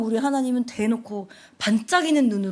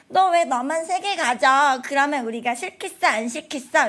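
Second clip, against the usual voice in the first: put-on slow, loud bossy kid scolding; mock scolding; 3 semitones higher, 5 dB louder than usual. Seven-year-old scolding the little one, loud and slow.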